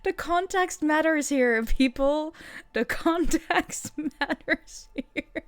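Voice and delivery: high-pitched plea breaking into laughter; laughing protest. Real, not acted. Streamer telling viewers that context matters, laughing. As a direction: insist on it while cracking up.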